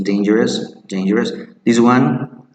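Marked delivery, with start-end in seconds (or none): 0.0-1.3 dangerous with day and a schwa ending; correct dangerous. Shown as a demonstration. Teacher repeats the correct dangerous. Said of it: "The correct pronunciation is".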